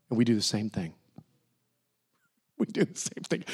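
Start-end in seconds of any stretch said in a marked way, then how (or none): 2.6-3.4 soft whisper, almost no voice; hushed whispered repeat; whispered confession. Real, not acted. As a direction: let it drop to a breath.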